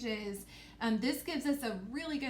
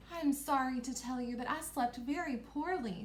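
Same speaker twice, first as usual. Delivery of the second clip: lightly raised princess voice; 3 semitones higher than usual. Acted. Princess answering the queen, lightly voiced princess. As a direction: lift the voice a little as the princess. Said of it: "I made my voice go up".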